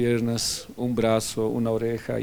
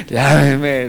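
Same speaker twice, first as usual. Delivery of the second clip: emphatic; 9 dB louder than usual. Retold or imitated. Repeats the call, louder.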